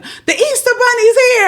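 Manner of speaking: high slow playful announcement; excited mom. Retold or imitated. Mom telling her child about the bunny, high and playful. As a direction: tease the child with news.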